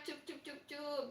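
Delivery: softly pulsed hushing sounds; playful soothing. Pretend. Host tells viewer not to cry, playful soothing. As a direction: coo it gently, as to a child.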